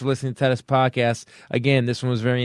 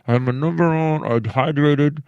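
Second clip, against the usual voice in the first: mock exasperation; 3 semitones higher, 6 dB louder than usual. Fallen runner berating herself on the track, mock exasperated. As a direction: play the fallen runner cursing the oversight. Acts out runner lying face down.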